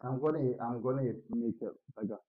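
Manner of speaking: muffled, like through water; underwater. Real, not acted. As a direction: sound like you're under water. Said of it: "I sound like I'm underwater".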